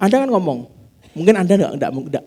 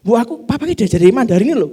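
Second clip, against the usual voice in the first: put-on child's voice; 8 semitones higher, 7 dB louder than usual. Child voiced reporting to mother.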